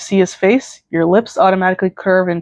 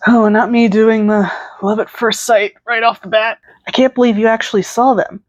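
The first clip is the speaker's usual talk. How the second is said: excited; 3 semitones higher than usual. Real, not acted. Reader's excited aside.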